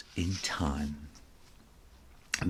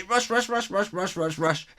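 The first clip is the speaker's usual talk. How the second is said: high, breathless chant of rush; 11 semitones higher than usual. A narrator's reading. Narrator racing to school in a high singsong. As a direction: hurry along in a singsong.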